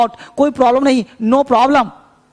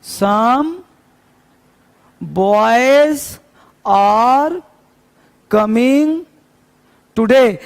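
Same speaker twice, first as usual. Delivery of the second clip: very slow, word by word, with pauses; teacher spelling out an example sentence slowly; slow dictation; much slower than usual. Shown as a demonstration. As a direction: dictate each word clearly for the class. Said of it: "और साफ देखो".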